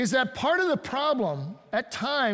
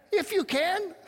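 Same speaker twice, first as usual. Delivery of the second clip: you can lifted much higher, incredulous; Jesus echoing the father's doubt, with you sharply raised; stress on you; 11 semitones higher than usual. Acted. Jesus throws the doubting words back, stressing you high. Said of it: "You hear the tone of encouragement there?".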